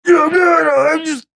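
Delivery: very high, strangled mock sob; hammed-up holding back tears; trying not to cry. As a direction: insist you're fine in a squeaky, tearful voice. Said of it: "trying not to cry".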